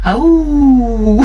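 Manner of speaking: uivo agudo, alto e prolongado; grito imitado. Retold or imitated. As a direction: imite um grito de guerra uivado. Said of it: "gosta de gritar". (uivo forte imitando o grito do grupo)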